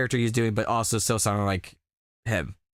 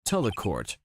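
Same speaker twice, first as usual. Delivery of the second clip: deep brooding prosecutor; 6 semitones lower, 4 dB quieter than usual. Acted. Voicing Godot.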